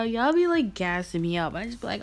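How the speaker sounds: ordinary talk, nothing marked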